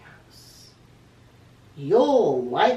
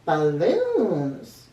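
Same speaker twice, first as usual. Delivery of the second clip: excited cry; 5 dB louder than usual. Acted. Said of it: "cried Henry".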